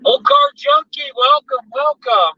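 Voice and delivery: high, drawn-out welcome call; excited greeting. Real, not acted. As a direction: sing out the welcome. Greeting a viewer on stream.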